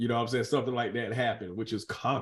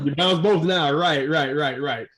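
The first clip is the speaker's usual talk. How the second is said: excited echo; 2 semitones higher, 8 dB louder, slower than usual. Real, not acted. Host repeats joke loudly.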